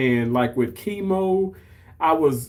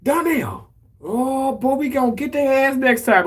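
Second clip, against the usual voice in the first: lightly voiced mom, high and chummy; a hint of mom egging him on; mom's voice; 10 semitones higher than usual. Mom promising her son they'll win next time, high and chummy.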